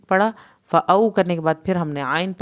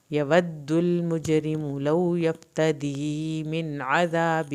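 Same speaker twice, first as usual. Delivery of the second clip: slow recitation; much slower than usual. Shown as a demonstration. Teacher recites verses to students, slow chant. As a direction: recite slowly, stretching the vowels. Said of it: "teacher models the recitation".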